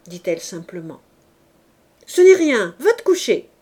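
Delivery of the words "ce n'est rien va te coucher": loud, high order to go to bed; a father's loud command at night; father shouting. A narrator's reading. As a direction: bark it at the child to send her off. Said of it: "cria son père".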